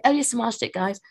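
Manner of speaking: light mimicry of a British accent; British woman. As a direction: imitate an upbeat British workout coach. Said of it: "she talks like this. She's like".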